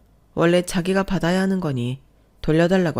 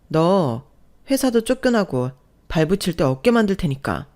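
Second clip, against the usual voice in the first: slightly raised, indignant warning; understated angry ultimatum; mild threat; 2 semitones higher than usual. Acted. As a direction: warn them off in a heated quarrel. Acted quarrel, threats to husband.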